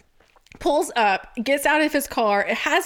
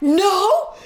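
put-on cheeky drunk teen; 7 semitones higher, 4 dB louder, much slower than usual. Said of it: "I was like".

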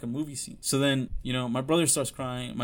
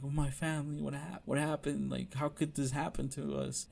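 soft, stunned mom imitation; retold disbelief; 2 semitones higher, 6 dB quieter than usual. Son imitating his mom on the floor, soft disbelief. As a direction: mimic a mother's hushed shock. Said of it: "she's, like, in disbelief".

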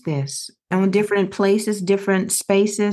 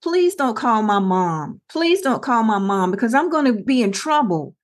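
retold begging. Bully begging a parent not to call mom, mild retold pleading. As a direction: plead lightly, drawing out the opening words. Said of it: "she started begging me".

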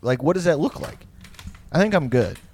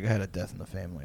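much softer, murmured confession; hushed excuse; 6 semitones lower, 12 dB quieter, faster than usual. Retold or imitated. Student to teacher, softly explaining a family death. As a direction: keep it low so nobody hears. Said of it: "talking, like, really quietly".

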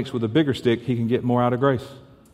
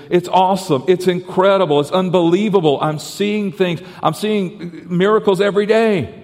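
gushing excitement; 5 semitones higher than usual. Acted. Man gushing about his new life.

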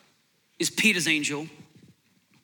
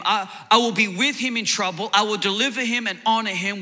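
raised, measured reading of the psalm; scripture reading; 2 semitones higher than usual. Acted. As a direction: proclaim the verses to the congregation. Reads scripture aloud in sermon.

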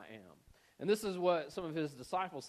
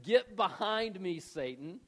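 slow, raised opening falling away on the name; rebuke; 4 semitones higher, 4 dB louder, slower than usual. Retold or imitated. Jesus rebuking Peter before the disciples, firm rebuke. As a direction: rebuke firmly, leaning on the first words. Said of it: "he rebuked Peter".

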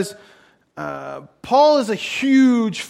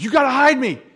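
higher, pressing imitation of a fugitive; mock urgent plea; 6 semitones higher, 3 dB louder than usual. Preacher playing the fleeing general at the tent, mock urgent. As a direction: beg in playful panic.

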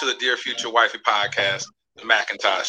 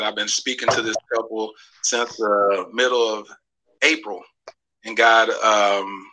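spoken prayer. Acted. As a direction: pray over the couple, steady and solemn. Leads a prayer.

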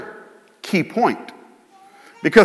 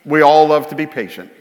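sarcastic; 3 semitones lower, faster than usual. Acted. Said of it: "And I'm lying".

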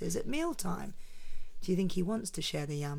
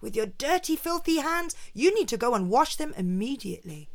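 higher, scolding spider; disgusted scolding; 5 semitones higher than usual. Acted. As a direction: scold the dirty guest. Anansi scolds Turtle.

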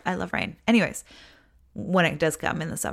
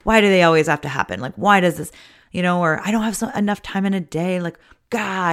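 louder, exasperated grumbling about the dishes; begrudging complaint; 4 dB louder than usual. Retold or imitated. Mother complaining about endless dishes, exasperated and loud. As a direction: huff it out like you're sick of chores. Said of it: "you're, like, begrudgingly doing it".

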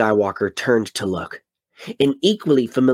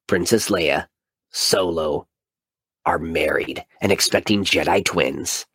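epic trailer narration. Acted. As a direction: sell it like a movie trailer. Reads blurb as epic trailer.

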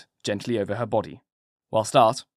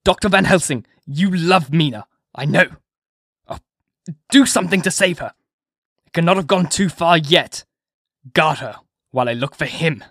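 higher, louder, desperate begging; a husband begging the doctor to save his wife; urgent plea; 4 semitones higher, 6 dB louder than usual. A narrator's reading. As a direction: plead hard with the doctor. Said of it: "he cried without pausing".

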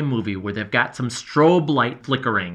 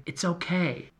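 gentle whisper; 6 semitones higher, 6 dB quieter than usual. A narrator's reading. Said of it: "gently and whispering".

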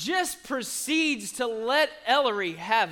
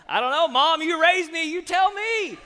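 sassy comeback; 5 semitones higher, 4 dB louder than usual. Retold or imitated. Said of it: "No, I didn't say that".

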